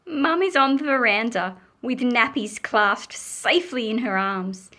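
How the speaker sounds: animated picture-book reading; story narration. A narrator's reading. Mum on the veranda above the noise, lively storytelling. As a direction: read it brightly to children, lifting the last line.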